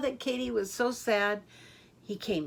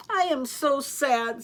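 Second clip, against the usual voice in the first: sad; 5 semitones higher, 5 dB louder, slower than usual. A narrator's reading. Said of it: "she started to cry again".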